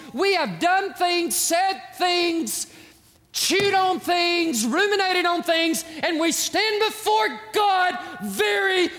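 fiery sermon climax; preaching at full force. Acted. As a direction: hammer each phrase home from the pulpit.

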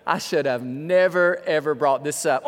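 lightly voiced regretful lawyer; a touch of uh-oh regret; worried lawyer. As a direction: mutedly play a man realizing his mistake. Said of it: "if the lawyer's going".

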